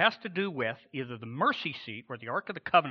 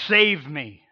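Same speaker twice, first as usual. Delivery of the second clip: cry to be saved; 9 dB louder than usual. Acted. The sinner's cry, acted.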